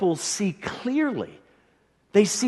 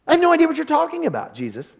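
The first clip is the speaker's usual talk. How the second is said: bewildered Nicodemus; 9 semitones higher, 4 dB louder, faster than usual. Acted. Nicodemus confused, serious.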